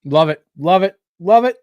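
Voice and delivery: climbing glee with every repeat; mounting delight, from pleased to thrilled; building excitement. Real, not acted. Host reacts to a recommendation.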